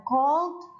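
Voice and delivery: "cold" drawn out slowly with an o and a sounded L; slow "kolt" as the mistaken reading; wrong "could". Shown as a demonstration. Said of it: "Jadi L-nya itu seperti tidak ada".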